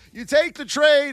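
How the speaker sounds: ordinary delivery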